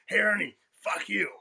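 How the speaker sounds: old coach calling out a rival, mock taunt.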